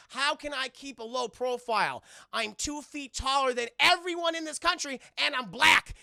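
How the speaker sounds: Chris Tucker. Retold or imitated. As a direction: squeal out the complaint in disbelief. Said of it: "It's like".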